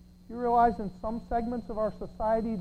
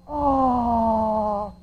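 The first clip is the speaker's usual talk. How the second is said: mock audience aww; 3 semitones higher, 6 dB louder than usual. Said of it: "whole studio audience went".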